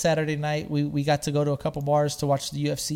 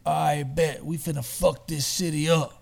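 Mikey's voice. Retold or imitated. Voicing Mikey's hype.

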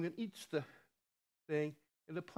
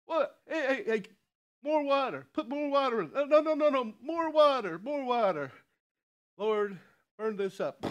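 high, loud, eager commands; excited Elijah; 7 semitones higher, 5 dB louder than usual. Retold or imitated. Elijah excitedly orders more water on the altar. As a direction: urge them on with mounting excitement.

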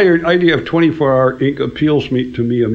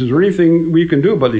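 fast, a bit higher and louder worried plea; mock panic; 5 semitones higher, 3 dB louder, faster than usual. A singer begging the arranger for help, mild mock panic. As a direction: rush it like a panicky singer. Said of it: "the singer goes into panic".

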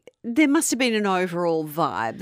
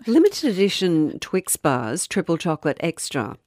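radio ad voice; 2 semitones lower than usual. Shown as a demonstration. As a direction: sell the chocolate bar like a radio spot. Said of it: "That's my news voice".

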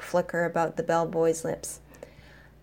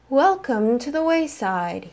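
warm sing-song; 5 semitones higher than usual. Acted. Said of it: "he called in a warm, sing-songy voice".

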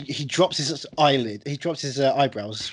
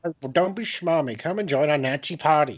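mock film quote. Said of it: "That was it".

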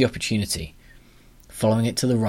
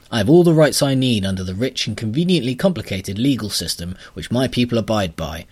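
pompous grubber; 2 semitones higher, 4 dB louder than usual. Acted. Grubber lecturing on rights.

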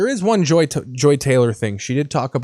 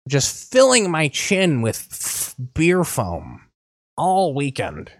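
mock Fox News voice; 3 semitones higher, slower than usual. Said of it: "Everyone on Fox News talks like this".

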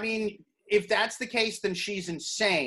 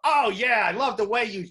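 mock sexy; 3 semitones higher than usual. Joker demonstrating his Hot Dog Rodeo game, mock sexy. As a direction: pretend seductive line, barely sexed-up. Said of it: "but you say it sexy".

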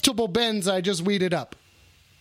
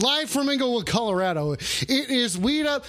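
hammed-up French announcer; badly faked French accent; attempted French accent; 4 semitones higher than usual. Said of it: "I don't know how to do a French accent".

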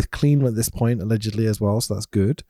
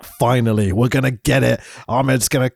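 retold excitement. Retelling his own hopeful reaction.

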